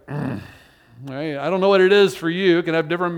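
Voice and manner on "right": emphatic grunt. Shown as a demonstration. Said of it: "just an emphatic".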